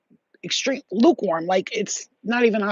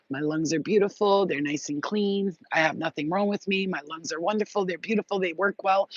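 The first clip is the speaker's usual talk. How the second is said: soft, soothing self-affirmation; gently voiced meditation, softly spoken; meditative affirmations; 4 dB quieter than usual. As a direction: recite a calming mantra to yourself. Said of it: "Every night I meditate".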